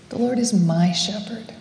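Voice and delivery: "my" stressed as the key word. Retold or imitated. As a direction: lean on "my", a little subdued. Repeated to self with shifting stress.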